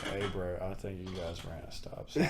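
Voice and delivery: drowsy, soft and low; sleepy voice. Retold or imitated. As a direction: mumble it half asleep. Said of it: "sleepy voice".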